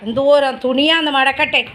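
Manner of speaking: high pet-talk voice. Acted. Owner playfully scolds her dog in high baby talk. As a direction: tease the dog like a small child.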